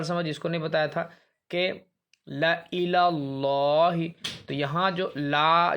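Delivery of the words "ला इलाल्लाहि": very slow, drawn-out recitation of ला इलल्लाहि; Quranic recitation. Shown as a demonstration. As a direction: chant it slowly, alif silent. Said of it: "जो अलिफ है ना".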